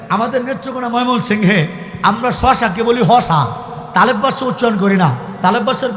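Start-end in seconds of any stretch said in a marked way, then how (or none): 2.0-3.4 "হসা" said slowly, with h in place of the standard sh of "শশা"; slow, deliberate dialect demo of "হসা"; Mymensingh dialect. Shown as a demonstration. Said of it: "এলাকার মানুষ খেয়াল করেন". (ময়মনসিংহের আঞ্চলিক উচ্চারণে ধীরে "হসা")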